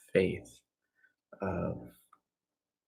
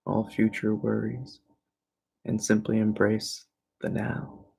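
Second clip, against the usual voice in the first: guided meditation; 2 semitones higher than usual. Real, not acted. Teacher guiding listeners into evening relaxation, calm meditation voice. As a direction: ease them gently into stillness.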